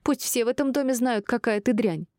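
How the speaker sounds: high-pitched denunciation; upset, scornful outburst; worked up. A narrator's reading. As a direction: announce it indignantly to all the neighbours. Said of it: "разошлась Шинар".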